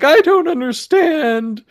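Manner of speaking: high-pitched, drawn-out frustrated wail; mock screaming. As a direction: wail loudly like a baffled gamer losing it. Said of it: "she was just screaming her head off".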